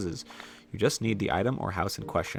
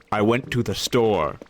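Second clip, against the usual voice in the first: mock spooky storyteller; 2 semitones lower, 4 dB louder, slower than usual. Mocking a horror story.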